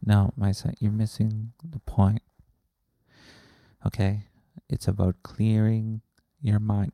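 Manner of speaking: patient guru. Acted. Plays guru answering the heckler.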